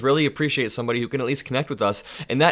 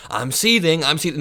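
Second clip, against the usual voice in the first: mocking sarcastic echo, a bit higher; sarcastic mockery; 5 semitones higher than usual. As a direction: parrot his complaint with sarcasm. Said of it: "in a sort of sarcastic ta-, uh, tone".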